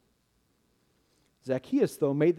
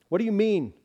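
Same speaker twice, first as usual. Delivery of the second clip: sharp, raised and louder, meaning get out of my sight; hostile demand; 6 semitones higher, 4 dB louder, faster than usual. Acted. Judah wants the cheating tax collector gone, demanding in hostility. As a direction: bark the question to drive him away. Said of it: "sounded more like, "Get out of my sight".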